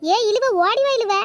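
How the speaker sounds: slow, drawn-out call to a companion. Acted. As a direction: call her to hurry along, stretching the words. Calling a lagging companion to hurry.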